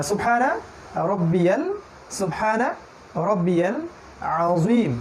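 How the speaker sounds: slow drawn-out Arabic recital; tasbih recital. Shown as a demonstration. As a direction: recite "সুবহানা রব্বিয়াল আযীম" slowly, each word apart. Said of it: "রুকুতে বলি যে". (ধীরে টেনে আরবি তাসবীহ পাঠ)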